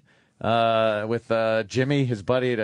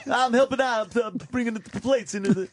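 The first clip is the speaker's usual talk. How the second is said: son's voice; 9 semitones higher than usual. Retold or imitated. Tony voiced in movie retelling.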